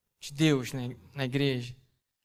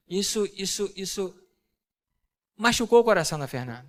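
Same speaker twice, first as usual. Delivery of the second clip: usual speaking voice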